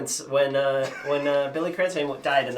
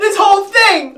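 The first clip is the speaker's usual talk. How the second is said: high, loud mock denial; mock protest; 10 dB louder than usual. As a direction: protest innocence, hammed up. Mock protest over heated argument.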